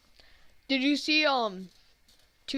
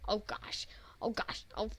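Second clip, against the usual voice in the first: whispering; 10 dB quieter than usual. Real, not acted. Whispering in dismay at game.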